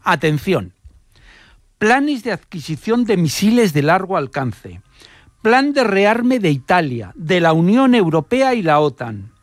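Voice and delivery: measured narration with emphatic pauses before key words; scripted radio storytelling. Acted. Radio reporter recounting an Italian spy case to listeners, storytelling delivery.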